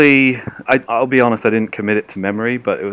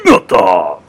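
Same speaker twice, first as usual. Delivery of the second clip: "Naginata!" called out louder, clipped; exclaimed; 2 semitones lower, 7 dB louder than usual. Shown as a demonstration. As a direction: shout "Naginata!" like a battle cry. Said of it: "tell us what the Naginata is".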